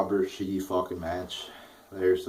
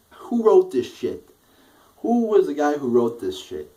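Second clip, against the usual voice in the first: angry demand; 6 semitones higher, 6 dB louder than usual. Real, not acted. Reviewer blasting whoever wrote the segment, furious and loud. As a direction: call out the writers furiously.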